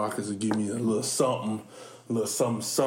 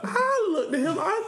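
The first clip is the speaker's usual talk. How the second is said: laughing. Retold or imitated. Retelling confronting coach, laughing.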